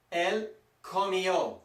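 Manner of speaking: "comió" slowly, with both i and ó heard; teacher's slow "comió", ending on a stressed ó; every vowel pronounced. Shown as a demonstration. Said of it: "You have to pronounce them all".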